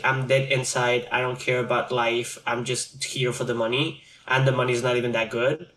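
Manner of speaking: dead inside drone. Retold or imitated. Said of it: "that attitude of".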